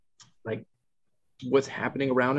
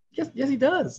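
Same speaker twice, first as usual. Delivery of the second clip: high-pitched retold protest; mock-exasperated, pitched way up; exasperated insistence. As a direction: insist against a contradicting kid. Parent insisting against defending child.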